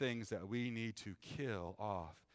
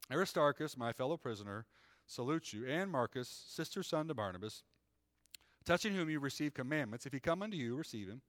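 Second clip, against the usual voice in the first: measured, raised reading voice; scripture reading; 2 semitones higher than usual. Acted. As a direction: read it like the pulpit Bible. Reads scripture aloud.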